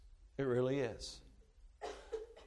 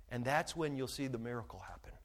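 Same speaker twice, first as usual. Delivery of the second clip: hushed whispered point; 6 semitones lower, 10 dB quieter than usual. Real, not acted. Preacher to the congregation, dropping to a whisper. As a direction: drop to a whisper to draw them in. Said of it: "whispered point".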